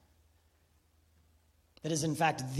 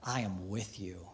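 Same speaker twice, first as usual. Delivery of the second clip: unconditional; 8 semitones lower, 10 dB quieter than usual. Shown as a demonstration. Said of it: "It's, No, no, no".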